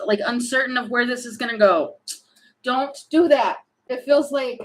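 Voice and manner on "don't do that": a sudden, slightly higher, raised warning; a mild yell. Real, not acted. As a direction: snap out a quick warning. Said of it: "I don't mean to yell".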